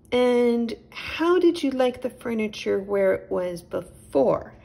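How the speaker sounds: a gentle host offering milk; a hint of a friendly little chipmunk; Nigel the chipmunk. A narrator's reading.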